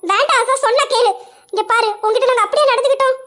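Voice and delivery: heated, rising reproach; exasperated. Acted. Friend pleading against a needless fight, exasperated. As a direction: argue urgently to make her see sense.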